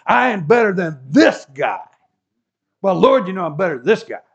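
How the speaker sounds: "this" punched hard and loud; stress on this. Retold or imitated. Pharisee sneering at the tax collector, stressing "this". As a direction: lean hard on "this" in "this guy". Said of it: "this" is emphasized".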